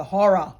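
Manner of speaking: "horror" in two syllables, HO-ruh; Australian horror. Shown as a demonstration. Aussie lamenting the breakdancer, "horror" as HO-ruh. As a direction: say "horror" with a clear second syllable. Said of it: "Or as you say".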